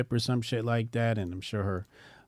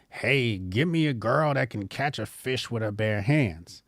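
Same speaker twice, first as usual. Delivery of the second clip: lightly voiced mock eager man; a hint of another man calling out; imagined man's request; 3 semitones higher than usual. Imagined man asking for a fish-catching girl, lightly mocking.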